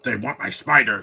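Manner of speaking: lightly mock the wooden line delivery; mocking the bad villain dub. Mocking the Madam Web villain's dubbed lines, stiff mock delivery. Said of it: "nobody talks like that".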